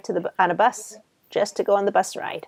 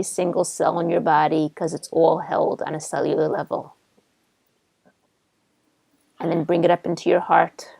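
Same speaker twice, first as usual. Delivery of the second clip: measured, even guiding voice with pauses; guided visualization. Real, not acted. Therapist guiding client through a new memory, guided visualization. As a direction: lead them gently through the imagery.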